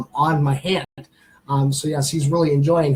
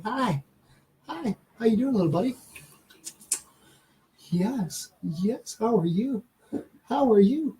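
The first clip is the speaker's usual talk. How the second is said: soft, higher coo to a little pet; pet talk; 5 semitones higher, 3 dB quieter than usual. Real, not acted. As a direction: greet a tiny animal sweetly. Cooing to the pet lizard.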